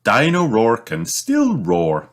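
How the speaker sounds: slow, lilting encouragement; brightly. Acted. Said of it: "says Mummy Pig brightly".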